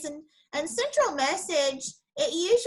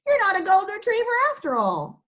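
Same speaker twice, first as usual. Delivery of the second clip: higher and fast, tumbling out; excited; 7 semitones higher, 5 dB louder, much faster than usual. Acted. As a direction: rush it out with glee. Rex delighted at discovery.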